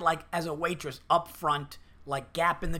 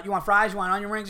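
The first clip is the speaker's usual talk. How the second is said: hurried run of menu questions; rushing through; 3 semitones higher, 5 dB louder, faster than usual. Retold or imitated. Waitress rushing a customer through sides, brisk and impatient. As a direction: rattle off the options, a touch raised. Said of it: "she starts rushing through".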